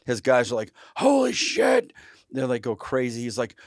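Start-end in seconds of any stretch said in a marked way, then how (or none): 1.0-1.9 high, loud amazed Holy shit; stunned exclamation. Retold or imitated. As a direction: blurt it out in shock, pitched way up. Bodyguards stunned by shooting.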